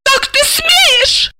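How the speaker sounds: very high, slow squealed outrage; shrieking. A narrator's reading. Offended wife to her handler, high slow squeal. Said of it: "взвизгнула Ася".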